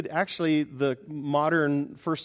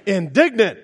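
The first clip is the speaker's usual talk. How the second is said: Indignant punched louder and higher with a falling end; stressed word; 4 semitones higher, 8 dB louder than usual. Shown as a demonstration. Preacher savoring the word for his flock, Indignant loud and high. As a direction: lean hard on Indignant, falling. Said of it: "isn't that a great term?".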